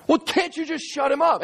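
high, exasperated whine of protest; worried pleading. Acted. Man pressing the angel to silence his dragon, worried high plea. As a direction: beg with the pitch pushed way up. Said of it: "so now he's really worried".

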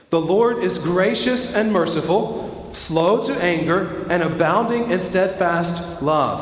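slow, measured scripture reading; unhurried recital with space for others to follow; reading aloud together. Real, not acted. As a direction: lead a group reading, phrase by phrase. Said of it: "Let's read this out loud together".

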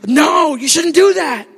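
Paul's emphatic refusal, voiced by the preacher. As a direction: forbid it forcefully.

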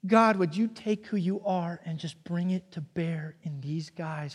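soft unvoiced prayer, hushed; whispered prayer. Jesus praying over his disciples for protection, in a whisper. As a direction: pray it under your breath.

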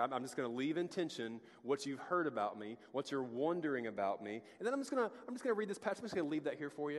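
lightly voiced Jesus playing coy; playful Jesus voice. Preacher voices Jesus leaving the room in suspense, playful. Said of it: "where he's like".

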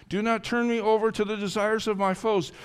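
high, urgent entreaty; imploring prayer to God; despairing plea. Acted. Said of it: "that point of despair".

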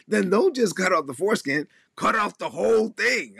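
high, exasperated retelling of Paul; heated mock Paul. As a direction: push the outrage up high. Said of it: "He's like".

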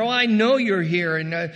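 high, loud, rattled-off doctrine; theological know-it-all. Acted. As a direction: reel off the verses to prove you know. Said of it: "she gets all theological".

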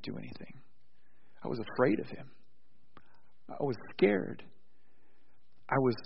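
soft, hushed confession; quiet reply. Retold or imitated. Khrushchev answering the heckler quietly. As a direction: let it fall quietly, almost confessing. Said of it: "Khrushchev replied quietly".

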